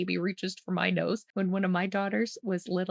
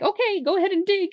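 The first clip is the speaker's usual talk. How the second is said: put-on a high, fast, louder little girl giving orders; bossy little girl; 12 semitones higher, 6 dB louder, faster than usual. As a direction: order the bear to dig. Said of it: "she's like".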